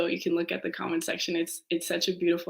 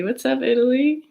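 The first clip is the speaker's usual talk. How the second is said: much higher, louder happy hello; excited shout-out; 7 semitones higher, 5 dB louder than usual. Real, not acted. Host greets the Italy viewer, high and excited. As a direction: sing out the greeting.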